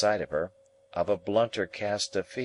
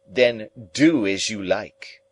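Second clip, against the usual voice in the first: gruff retort; 3 semitones higher, 6 dB louder, slower than usual. A narrator's reading. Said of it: "flung out in his violent way".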